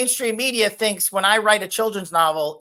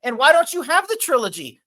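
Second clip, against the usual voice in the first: sarcastic excitement; 8 semitones higher, 6 dB louder than usual. Real, not acted. Mock-taking the smear as gospel.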